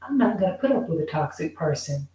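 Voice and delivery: fast, firm refusal; defiant. Retold or imitated. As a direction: rattle it off, drawing a line. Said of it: "to say".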